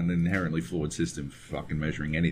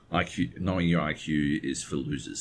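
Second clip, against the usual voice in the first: Stephen Hawking robot voice; 3 semitones lower than usual. Retold or imitated. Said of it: "in his robot voice".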